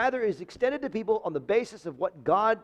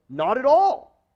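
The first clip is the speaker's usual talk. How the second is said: higher and louder, a firm "Not at all"; emphatic denial; 6 semitones higher, 5 dB louder than usual. Shown as a demonstration. Pastor quoting the NIV, firm emphatic denial. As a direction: punch "Not at all" high and loud. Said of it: "It's an emphatic denial".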